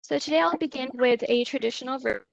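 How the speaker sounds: choppy, dropping internet audio; corrupted glitchy audio. Real, not acted. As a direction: sound cutting in and out. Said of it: "your sound keeps cutting out".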